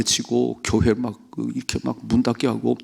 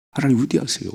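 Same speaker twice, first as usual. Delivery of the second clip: raised praise take; 5 semitones higher than usual. Shown as a demonstration.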